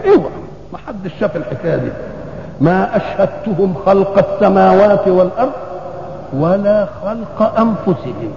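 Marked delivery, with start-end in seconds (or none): 2.6-8.3 slow, measured Qur'an quotation; verse recitation. Real, not acted. Preacher quoting scripture to his congregation on creation, measured recitation. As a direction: recite the verse slowly, word by word.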